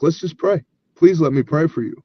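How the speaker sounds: lightly acted, tender pleading; gentle plea. Helper offers prayer to a sobbing woman, gentle plea.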